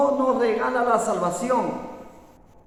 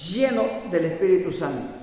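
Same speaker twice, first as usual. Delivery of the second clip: llenos leaned on with a falling close; stress on llenos; 2 semitones lower than usual. Shown as a demonstration. Preacher to church, stressing llenos. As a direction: press hard on llenos. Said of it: "enfatizamos la palabra lleno".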